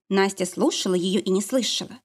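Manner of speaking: ordinary delivery, nothing marked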